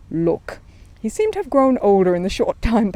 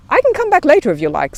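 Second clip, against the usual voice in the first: hopeful; 10 semitones higher, 9 dB louder than usual. Acted. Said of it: "said Paddington hopefully".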